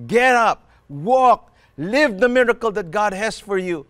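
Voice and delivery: forceful preaching with punched commands. Real, not acted. Preacher urging the church to get up and walk, preaching forcefully. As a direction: drive each command home, pausing between.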